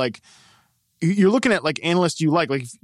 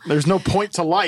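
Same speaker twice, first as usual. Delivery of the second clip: clearer, louder, hands off face; 4 semitones higher than usual. Real, not acted. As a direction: say it again clearly. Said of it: "Let me say that again".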